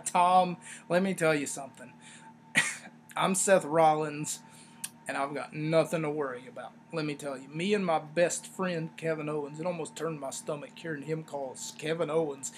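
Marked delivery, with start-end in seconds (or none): 0.0-9.6 lightly voiced unworried wrestler, dropping low; Seth Rollins. Reviewer imitating a wrestler's post-match interview, lightly unworried. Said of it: "he doesn't sound worried at all".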